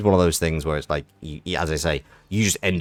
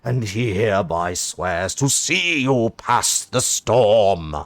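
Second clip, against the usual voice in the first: overjoyed posh knight; 2 semitones higher, 4 dB louder, slower than usual. Acted. Knight rejoices at being accepted, gushing posh. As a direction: burst with pompous delight. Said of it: "Punchably Posh".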